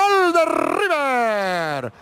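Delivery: long stretched GOL falling away; drawn-out goal call. Real, not acted. Goal celebrated.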